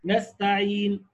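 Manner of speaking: نستعين stopped on a silent n, lips rounded right after; نستعين بالإشمام; ishmam demo. Shown as a demonstration. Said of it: "وضم الشفتين".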